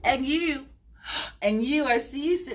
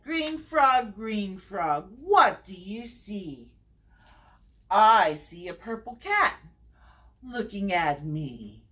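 sing-song read-aloud, each repeated name stepping down; story time refrain with falling line ends; picture-book reading; 2 semitones lower, slower than usual. Acted. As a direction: read to little ones with lilting, measured phrasing. Reads picture book to children.

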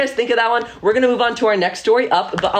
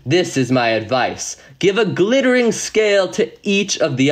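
slow, low octopus voice with a hint of mystery; deep voice; 3 semitones lower than usual. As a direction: speak slowly like a wise old octopus. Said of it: "in a deep, deep voice".

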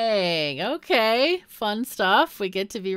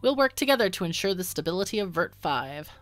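smooth official voice; 2 semitones higher than usual. Acted. Reads propaganda minister dialogue.

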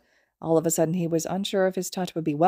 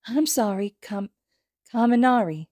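put-on high, careful toddler apology; a little boy correcting himself; small child voice; 5 semitones higher than usual.

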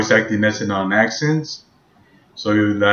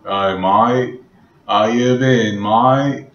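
a light, louder Australian accent; 4 dB louder than usual. Shown as a demonstration. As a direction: greet a mate the Aussie way. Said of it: "Let's do Australian".

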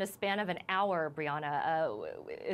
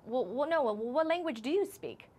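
backtracking stranger; 6 semitones higher than usual. Retold or imitated. Acts out the young man.

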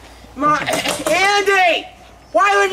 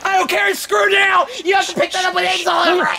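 angry yelling. Real, not acted. Kid yelling over ruined phone.

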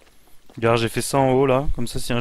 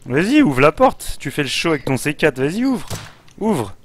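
excited goading; 4 semitones higher than usual. Real, not acted. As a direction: egg him on to blow the door. Goading friend to blow door.

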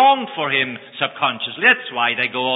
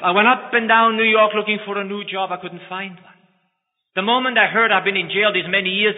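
higher, strained, despairing; desperate pleading; 5 semitones higher than usual. Acted. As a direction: plead for understanding. Ex-convict pleads his story.

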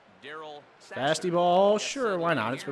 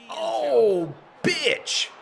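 high-pitched loud outburst; exasperated cry; 11 semitones higher, 5 dB louder than usual. Real, not acted. Player reacting to the game's bad turn, exasperated cry. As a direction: cry out sharply, pitch leaping up.

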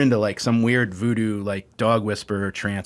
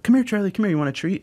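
coaxing a dog; 6 semitones higher, faster than usual. Retold or imitated. Trainer calling Charlie over with a treat, coaxing. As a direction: imitate a trainer luring a dog, pitched up.

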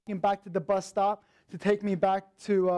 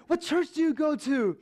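imitating the eager TA, pitched higher; eager, pitched-up questions to a new friend; excited questions; 6 semitones higher than usual. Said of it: "And he got so excited".

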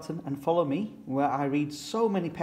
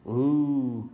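mock children's ooh; a touch of a group of children cooing; children crying ooh; 3 dB louder than usual. Playgroup children cooing at their teacher, lightly voiced. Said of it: "cried the children".

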